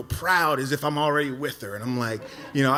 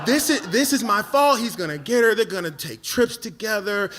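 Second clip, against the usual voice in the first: distraught; 5 semitones higher, 3 dB louder than usual. Retold or imitated. Distraught, imagining losing her.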